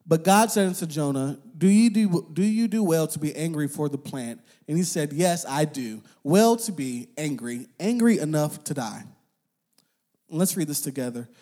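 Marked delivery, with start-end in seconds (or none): 0.0-9.0 measured, solemn Bible reading; scripture reading. Acted. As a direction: read the passage to the congregation. Reads Jonah scripture aloud.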